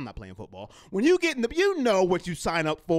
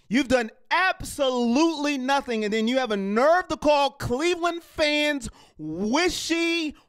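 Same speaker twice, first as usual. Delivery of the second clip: heated rant; 5 semitones higher than usual. Real, not acted. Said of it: "I had to get that off my chest".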